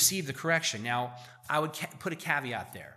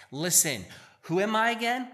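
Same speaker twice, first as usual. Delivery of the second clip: mock arrogance; 8 semitones higher than usual. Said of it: "if I'm like this person here".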